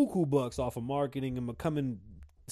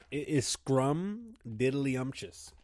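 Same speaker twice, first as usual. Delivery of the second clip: while sipping a drink; 2 semitones higher, slower than usual. Real, not acted. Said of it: "I'm sipping lean".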